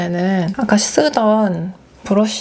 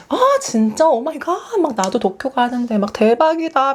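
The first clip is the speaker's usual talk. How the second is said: higher, thrilled fellow traveler squeal; excited gushing; 4 semitones higher than usual. Retold or imitated. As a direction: gush over the coincidence, pitched up. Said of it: "둘이 막 난리가 났어". (호들갑 떠는 흥분한 말투)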